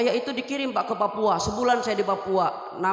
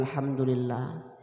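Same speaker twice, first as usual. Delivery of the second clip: grateful father; 10 semitones lower, 5 dB quieter, slower than usual. Retold or imitated. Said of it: "Bilang bapaknya".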